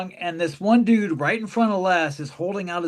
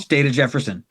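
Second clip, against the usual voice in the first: deep mock announcer; 4 semitones lower than usual. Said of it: "you kept going".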